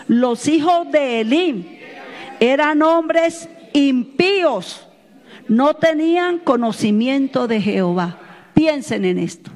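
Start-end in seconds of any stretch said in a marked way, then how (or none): 0.1-8.2 deliberate scripture reading, slightly lifted; reading out firmly. Real, not acted. Pastor leads the congregation in reading scripture aloud, firmly. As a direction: read it so everyone can follow along. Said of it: "léalo conmigo en voz fuerte".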